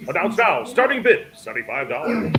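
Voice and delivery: booming auction announcer. Pretend. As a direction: sell it like a game show host. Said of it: "Everybody's gotta sound like an announcer voice".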